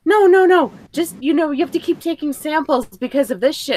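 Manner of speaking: high whiny mock teacher voice; the story's teacher, mocked, high and whiny. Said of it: "the teacher's like".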